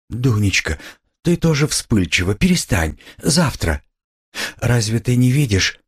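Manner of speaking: high, anxious mother hushing her daughter; frightened. A narrator's reading. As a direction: plead in alarm, voice up. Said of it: "перепугалась мать".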